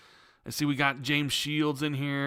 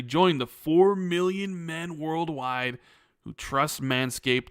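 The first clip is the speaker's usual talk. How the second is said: punchy podcast sponsor read, lifted phrase openings; scripted announcer delivery with jokey flourishes; 2 semitones higher than usual. Acted. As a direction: sell it like a holiday promo. Reads the sponsor spot.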